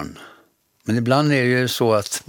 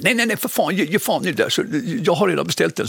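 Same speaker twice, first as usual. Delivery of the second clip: Bergman voice; 6 semitones higher, faster than usual. Retold or imitated.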